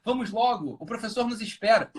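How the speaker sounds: hammed-up scripted delivery; bad Brazilian acting. Shown as a demonstration. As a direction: act it badly, like a teen soap. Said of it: "É assim que a encenação de, de brasileiro".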